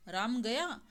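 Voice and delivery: "राम गया" in mild surprise, rising on गया; surprised intonation. Shown as a demonstration. Teacher showing students one phrase in three intonations, mild surprise. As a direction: exclaim "राम गया" lightly, lifting the end of गया. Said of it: "आश्चर्य दिखाया गया है चिन्हों के द्वारा".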